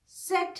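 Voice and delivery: सेट with ts onset; German Z. Shown as a demonstration. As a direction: say सेट, not जेड. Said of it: "German में कहते हैं सेट". (German में सेट)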